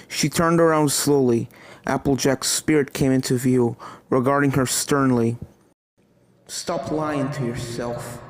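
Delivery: regard her sternly from beyond; stern ghost Applejack. Acted. Applejack's stern spirit speaks.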